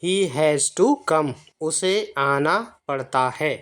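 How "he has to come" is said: "he has to come" read slowly, each word apart; slow model reading. Shown as a demonstration. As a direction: read it slowly so students can copy it. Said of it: "इसे पढ़ता है ऐसे आएगा".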